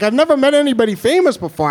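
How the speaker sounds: fast, high, gushing; starstruck. Retold or imitated. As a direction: gush like a starstruck fan. Starstruck girl.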